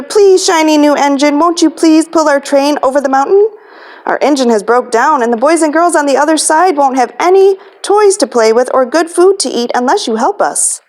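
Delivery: a hint of begging toys; pleading toys. Toys begging the shiny engine, mild pleading. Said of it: "cried out together".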